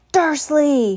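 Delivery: loud, high bellow of a name; booming. A narrator's reading. Enraged giant calling out the uncle, booming. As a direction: boom it out with a falling end. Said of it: "he boomed".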